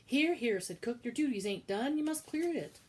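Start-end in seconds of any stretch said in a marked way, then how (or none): 0.0-0.6 loud, higher summons; calling out. Acted. Cook calling Midge back to clear the tray, loud call. 1.0-2.8 loud, high scolding kitchen boss; bossy cook. Acted. Cook ordering Midge to clear the tray, loud and bossy.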